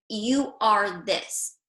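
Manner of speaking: slow, flat verdict, "You" stressed, falling end; labeling statement. Shown as a demonstration. Coach showing wives the wrong, labeling way, blunt. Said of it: "See the difference?".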